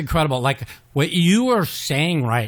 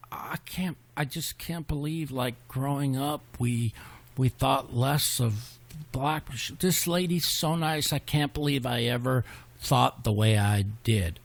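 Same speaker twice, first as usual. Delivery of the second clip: soft, slow, near tears, quoting his father; tearful quiet dad; 5 dB quieter than usual. Retold or imitated. Sick dad telling his son about the kind nurse, softly tearful. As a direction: imitate a moved old father close to tears. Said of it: "he's almost in tears".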